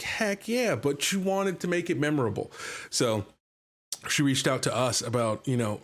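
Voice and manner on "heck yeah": eager yes. Retold or imitated. GM's own retold eager reply.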